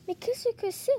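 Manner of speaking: high-pitched, delighted curiosity; thrilled to find a surprise; delighted wonder. Acted. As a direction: ask it with eager, rising delight. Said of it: "se demande-t-il ravi".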